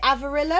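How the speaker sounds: questioning Avarillo, rising, with short i in "rill"; pronounced like Amarillo. Shown as a demonstration. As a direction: ask AV-a-RILL-o, rhyming with Amarillo. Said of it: "like, Amarillo type thing?".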